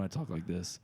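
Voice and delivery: low professional phone voice. Shown as a demonstration. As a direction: speak as if in a business meeting. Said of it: "when I talk to people on the phone".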